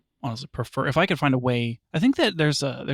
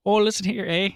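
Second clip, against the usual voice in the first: a higher, hammed-up Wisconsin accent; botched Wisconsin accent attempt; 5 semitones higher than usual. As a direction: try a Midwestern Wisconsin lilt. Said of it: "I'm gonna see if I can do a Wisconsin accent".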